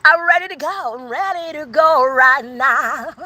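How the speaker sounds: high and excited, stretching out the second line; itching to go right now; eager to leave. Retold or imitated. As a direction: someone thrilled to finally move out. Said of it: "It's like".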